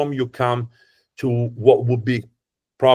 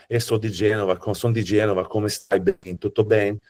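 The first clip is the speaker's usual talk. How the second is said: Genoese Italian with a Portuguese lilt; lightly sing-song Genoese accent. Shown as a demonstration. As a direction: imitate a Genoese local sounding almost Brazilian. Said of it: "sounds like if you hear some Brazilians".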